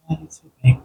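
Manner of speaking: slow and low. Retold or imitated. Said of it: "he was talking really slow and low".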